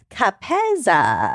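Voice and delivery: sounded out slowly, Capezza with a plain z; slow careful. Shown as a demonstration. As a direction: carefully spell out Capezza syllable by syllable. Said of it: "from Madeline Cape".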